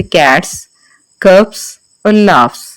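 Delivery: "कैट्स, कप्स और लाफ्स" with a crisp hissed s ending; cats with s ending. Shown as a demonstration. Teacher models plural endings, sharp s sound. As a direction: end "कैट्स" on a clear voiceless s. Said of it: "हम सा sound produce करेंगे".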